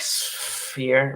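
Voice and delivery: "sphere" with a drawn-out, separated s-f onset; laboured pronunciation. Shown as a demonstration. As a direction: struggle through "sphere", holding the hiss before "fear". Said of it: "I still kinda have to".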